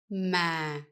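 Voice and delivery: ma said with the pitch sliding down low; falling tone. Shown as a demonstration. Vietnamese teacher demonstrating the down tone, falling. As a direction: drop the pitch through ma, the huyền tone. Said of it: "the whole word needs to go down".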